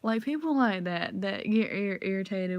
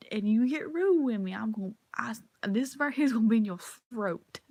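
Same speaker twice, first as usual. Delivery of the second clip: mock threat; 4 semitones higher than usual. Threatening a rude girl with a taser, mock menace. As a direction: threaten with a grin. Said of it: "I get my taser and I'm just like".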